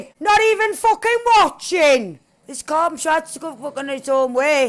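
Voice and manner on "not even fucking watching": angry shout. Real, not acted. Gamer yelling at the game, angry shout. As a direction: yell it out in frustration.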